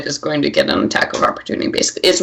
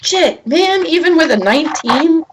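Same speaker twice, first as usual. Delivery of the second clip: exasperated; 11 semitones higher than usual. Real, not acted. Frustrated at missed roll.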